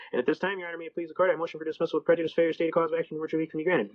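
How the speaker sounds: rattled-off courtroom recitation; fast talking. Shown as a demonstration. Self-represented defendant addressing the judge, brisk rote delivery. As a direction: reel off the memorized legal formula briskly. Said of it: "I apologize if I'm talking too fast".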